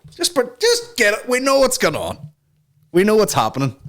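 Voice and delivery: squeaky knowing voice. Pretend. To viewers about the elite, a high squeaky knowing voice. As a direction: pipe it up high like a conspiracy whisperer.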